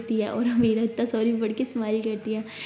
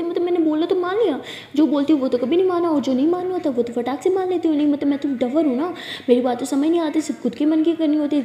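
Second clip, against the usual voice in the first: fast angry rant; 4 semitones higher, 4 dB louder than usual. Acted. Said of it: "इतना तेज़ कैसे बोल लेती हो".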